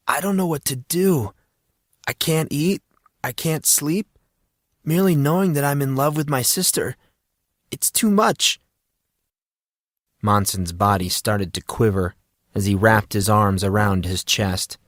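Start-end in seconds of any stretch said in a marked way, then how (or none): 0.1-8.6 high, tight, faked distress; hammed-up heartbreak, rising to a wail; mock anguish. Monson fakes despair about loving his sister, high and pleading. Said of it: "He sniffed".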